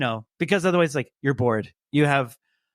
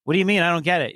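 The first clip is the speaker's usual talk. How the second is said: higher, mock-confused dad; playing dumb; 5 semitones higher, faster than usual. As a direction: feign total bafflement. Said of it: "playing dumb to the kids".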